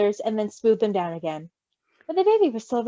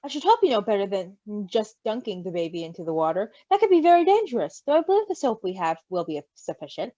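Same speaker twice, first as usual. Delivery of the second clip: a hint of a lower, prim voice; prim crow Logan; 3 semitones lower than usual. Logan the crow lightly voiced, primly scolding Roman. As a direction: correct him like a fussy know-it-all.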